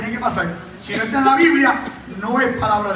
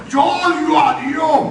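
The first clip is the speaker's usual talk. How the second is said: loud, slow, higher shout of hatred; changed possessed voice; 4 semitones higher, 4 dB louder, much slower than usual. Retold or imitated. Possessed man shouting at the preacher, a slow loud changed voice. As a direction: drag out each word as if something else speaks. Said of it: "Cambiando la voz".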